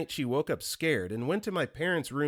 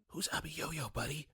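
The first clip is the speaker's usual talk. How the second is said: hushed gentle question; whispering; 2 semitones higher, 9 dB quieter than usual. Retold or imitated. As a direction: whisper it to a child. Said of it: "Me whispering".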